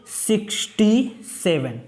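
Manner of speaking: "Sixty seven" read slowly, word by word; teacher models the reading slowly. Shown as a demonstration. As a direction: model the number slowly for the class. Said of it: "तो इसको देखो क्या पढ़ेंगे".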